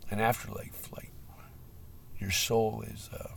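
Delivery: hushed whisper; soft whispered musing. Real, not acted. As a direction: breathe it like a secret. Musing about the soul, drops voice.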